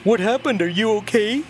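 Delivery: high, fake-concerned "What happened? Are you okay?"; mock worried friend. Friends messaging the dead account, a mock worried high voice.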